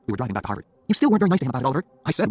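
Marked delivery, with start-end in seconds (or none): 0.9-1.8 higher, louder reproach; scolding girlfriend. Acted. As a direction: take him to task, pitched high. Jenny scolds Oliver in car.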